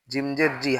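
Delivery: জি with a short i; no stretch. Shown as a demonstration. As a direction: cut the vowel of জি short. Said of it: "তখন টান হবে না".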